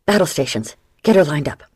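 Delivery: rally the crew in a hurry; battle stations bark; shouted orders. Acted. First mate orders crew into battle.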